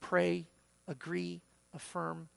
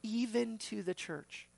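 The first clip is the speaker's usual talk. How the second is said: "Even to the church" slowed and pitched up; emphatic stress; 4 semitones higher than usual. Shown as a demonstration. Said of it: "the emphasis there".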